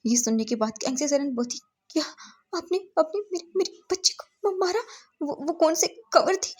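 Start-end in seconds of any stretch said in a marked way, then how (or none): 1.9-6.5 high, strained and slowed with disbelief; a mother's voice cracking at the news; high, pained cry of a stunned mother; shocked grieving mother. Acted. Mother hears daughter was beaten.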